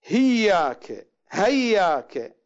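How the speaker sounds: هياك with an h in place of the hamza, slow; variant reading. Shown as a demonstration. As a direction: say هياك slowly with a breathy h. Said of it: "يقرؤونها". (هياك بالهاء بدل الهمزة)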